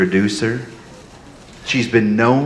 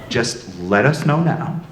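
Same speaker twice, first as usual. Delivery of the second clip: ordinary talk, nothing marked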